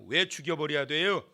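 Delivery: ordinary talk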